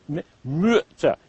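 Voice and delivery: "m-" then "Mütter" with rounded short ü. Shown as a demonstration. Teacher drilling the word, short rounded ü. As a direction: purse the lips for ü in "Mütter". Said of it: "You purse your lips".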